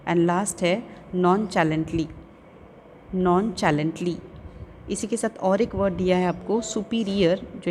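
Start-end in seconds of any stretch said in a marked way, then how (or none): 1.1-4.2 slow, distinct "nonchalantly"; careful pronunciation. Shown as a demonstration. Teacher giving pupils the last practice word, careful pronunciation. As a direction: say "nonchalantly" slowly, as non-cha-lant-ly. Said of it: "listen to the pronunciation of the".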